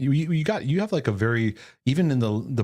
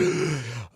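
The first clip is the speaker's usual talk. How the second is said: deep breath. Shown as a demonstration. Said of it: "take a deep breath before I do it".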